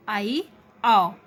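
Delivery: "आई, आओ" stretched very slowly, mouth half open; drawn-out vowel demo. Shown as a demonstration. Teacher demonstrating half-open vowels, very slow and drawn out. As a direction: draw out "आई" and "आओ" slowly for the class. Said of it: "आप इन्हें बोल के देखिए".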